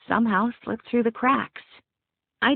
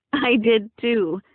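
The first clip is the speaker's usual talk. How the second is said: slow, emphatic exclamation, raised pitch; exclaiming; 4 semitones higher, 5 dB louder, slower than usual. A narrator's reading. Bride agreeing with her maid of honor, exclaiming. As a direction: exclaim it happily, drawing it out. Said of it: "I exclaimed".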